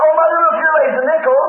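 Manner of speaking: lifted, surprised call to mother; excited daughter. Retold or imitated. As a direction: imitate a girl spotting treasure. Acts daughter finding coin.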